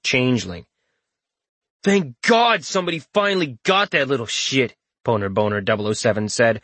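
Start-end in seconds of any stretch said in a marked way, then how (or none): 1.8-4.7 high smug sneer; smirking. Acted. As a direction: say it with a loud smirk. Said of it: "the smirk loud in his tone".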